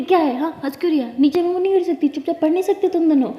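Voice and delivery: put-on girl snapping at the two teasing her; irritated scolding. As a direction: tell them off for laughing. Girl scolds laughing friends.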